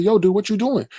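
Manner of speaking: high, baffled call-out; incredulous. Retold or imitated. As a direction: ask it like you can't believe it. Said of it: "I said".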